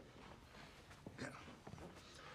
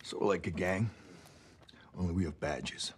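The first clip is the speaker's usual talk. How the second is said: tough cop. Acted. Cop menacing a detained suspect.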